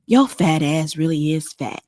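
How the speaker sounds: put-on lightly slurred drunk voice, a hint only; mock drunk insult. Host mocking what drunks say, lightly slurred drunk voice. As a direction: play a mean drunk, lightly. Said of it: "Drunk people say stuff like".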